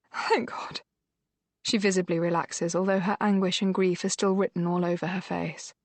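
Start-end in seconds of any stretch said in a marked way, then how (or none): 0.1-0.8 relieved whisper. Acted. Relieved aside.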